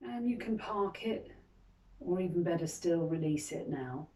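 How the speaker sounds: calm guiding voice with long, unhurried pauses; guided meditation. Acted. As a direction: gently lead them into reflection, leaving space between phrases. Guides a reflective moment.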